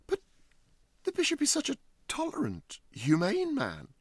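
high, fast flustered gentleman; flustered host voice. Acted. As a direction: stammer in rising alarm. Huddle protests.

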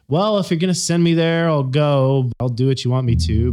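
grudging compliance. Retold or imitated. Imitating employees sent to training, grudging compliance. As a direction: imitate an employee half-heartedly agreeing to go. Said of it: "people who say".

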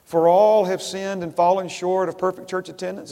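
mock-earnest wrong version, leaning on all; wrong quote delivered with stress on all; misquoted verse. Shown as a demonstration. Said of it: "Is that what it says?".

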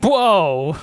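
sudden waking gasp; startled whoa. Pretend. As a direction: jolt awake surprised. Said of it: "He's just like".

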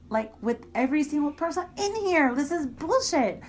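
heated retold tirade, pitch pushed up; indignant rant. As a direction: relive the indignant outburst at the hypocrites. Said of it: "So I got really indignant".

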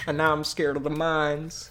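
put-on slow, light Southern Texas accent. Host continuing the movie bit, Southern Texas accent. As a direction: imitate a Texas boy, lightly. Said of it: "Southern Texas boy".

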